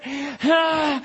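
loud panting exhale, high; acted effortful gasp. Preacher acting out a river rescue, winded gasp. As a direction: gasp as if swimming hard.

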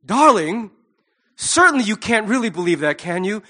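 lightly put-on posh British accent, a touch grand; a hint of posh British drawing-room talk, teasing; mock posh British. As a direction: play a Downton Abbey aristocrat in a posh British accent, half mocking. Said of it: "make it sound like they're British people in Downton Abbey".

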